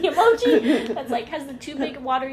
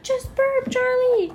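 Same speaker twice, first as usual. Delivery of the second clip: high, mock-urgent shout of advice; pitched-up, hammed-up pleading; imitated grandpa; 9 semitones higher, 4 dB louder, slower than usual. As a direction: lightly act out urging someone on. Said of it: "And he's like".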